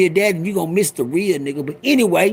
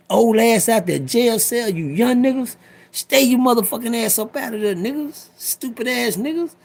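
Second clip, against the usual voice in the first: scolding lecture; 6 semitones higher than usual. Real, not acted. Lecturing young inmates.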